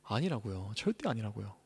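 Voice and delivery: quiet emphatic no; soft firm denial. Real, not acted. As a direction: drop the voice to insist. Emphatic denial after question.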